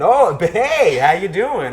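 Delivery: high, loud, hammed-up American "how you doing"; overdone American greeting; bad American accent. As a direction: backpedal into a terrible Yank voice. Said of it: "in this really terrible American accent".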